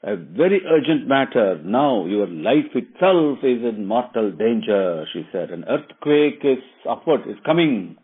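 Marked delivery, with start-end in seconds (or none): 0.0-5.1 raised, louder urgent shouting; shrill shriek. Retold or imitated. Servant shrieking at the queen's door, raised and urgent. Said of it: "shouted and shrieked at a very shrill voice". 5.5-8.0 excited shout. Retold or imitated. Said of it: "she shouted like that in an excited voice".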